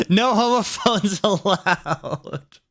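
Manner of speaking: high, slow, laughing mock proclamation; mock stern decree. Reader mocking the story with a laughing house decree.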